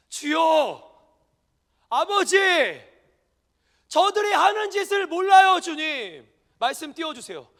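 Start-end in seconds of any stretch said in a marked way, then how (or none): 0.1-6.3 a hint of Jesus pleading on the cross; slow drawn-out plea to the Father; voicing Jesus praying. Preacher voicing Jesus' prayer on the cross, gently pleading. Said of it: "여기에 뭐라고 하십니까?".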